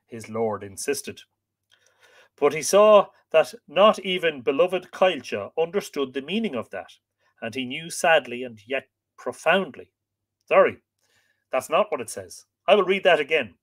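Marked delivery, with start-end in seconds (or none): 2.4-9.9 measured, expressive storytelling voice; story narration. A narrator's reading. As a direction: read it like an old legend, stressing key words. Reads the tale aloud.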